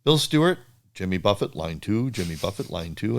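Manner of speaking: loudspeaker page. Retold or imitated. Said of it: "I hear over the loudspeaker".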